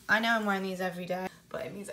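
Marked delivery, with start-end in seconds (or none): 1.5-1.9 a confiding whisper to camera. Real, not acted. Whispering to viewers about thermals under the dress. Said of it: "unvoiced whisper".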